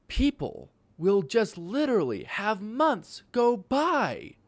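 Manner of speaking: shrieking, high and loud disbelief; incredulous shout. Real, not acted. Ranting to viewers about wasted months, shrieking in disbelief. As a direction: build up and explode on insane and months.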